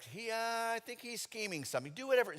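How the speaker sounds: high, confiding aside; mock conspiratorial. Mary confiding in servants.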